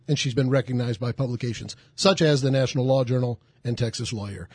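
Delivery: running out of breath at the end; out of breath after a long intro. Real, not acted. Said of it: "I'm out of breath after that one".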